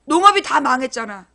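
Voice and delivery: ordinary talk, nothing marked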